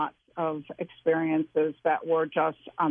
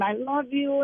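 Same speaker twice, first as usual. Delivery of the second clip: retold yell; 6 semitones higher than usual. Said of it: "with me crying and yelling".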